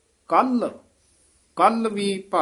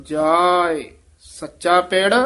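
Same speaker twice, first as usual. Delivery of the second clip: slow recitation; 3 dB louder, much slower than usual. Shown as a demonstration. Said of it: "ਇੱਥੇ ਮਲ ਕੱਸ ਕੇ ਬੋਲਣਾ".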